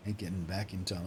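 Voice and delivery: light Australian miner voice; lightly put-on Australian accent. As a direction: grumble in a mild Australian accent. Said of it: "they write these guys with Australian accents".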